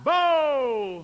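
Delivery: high, loud held syllable; calling voice. Shown as a demonstration. Teacher demonstrating belted vowels, calling out. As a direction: belt it like a hail. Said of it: "it's in your calling voice".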